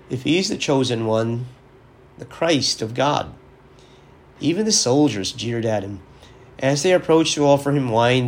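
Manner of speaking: formal, measured scripture reading; gospel reading. Acted. Priest reading Luke's gospel to listeners, formal and solemn. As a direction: read the passage with solemn care.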